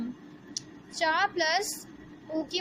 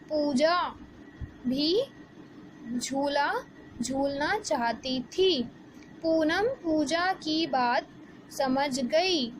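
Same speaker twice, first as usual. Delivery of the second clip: slow, clear storybook reading; reading aloud to children; much slower than usual. Acted. Teacher reading the lesson story aloud, slow and clear. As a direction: read slowly, word by word, for young learners.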